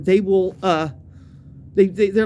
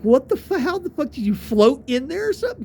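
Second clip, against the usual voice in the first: higher-pitched mock-incredulous question; retold amazement; 6 semitones higher than usual. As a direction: imitate friends who can't believe it.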